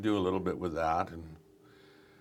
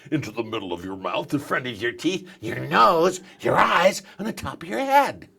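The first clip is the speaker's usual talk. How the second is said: voice climbing up through the body; 3 semitones higher, 4 dB louder than usual. Shown as a demonstration. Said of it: "add a bit of gravel to that".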